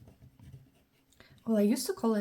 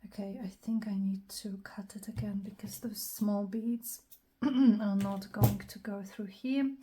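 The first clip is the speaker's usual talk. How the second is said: whispering. Acted. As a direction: whisper the next step to yourself. Whispered crafting commentary.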